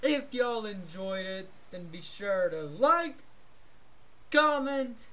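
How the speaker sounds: upbeat channel sign-off; casual vlog outro; youtuber outro. Acted. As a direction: wrap up the video for fans.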